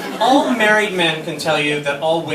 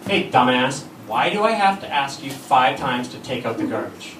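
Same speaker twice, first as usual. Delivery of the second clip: exasperated wife; 3 semitones lower than usual. Retold or imitated. Wife's real meaning to lazy husband, exasperated. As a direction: tell off a useless husband. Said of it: "Which of course means".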